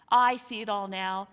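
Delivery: loud, eager burst cutting in; boy blurting out his theory, loud and eager; eager interruption. A narrator's reading. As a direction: jump in loudly, bursting with the idea.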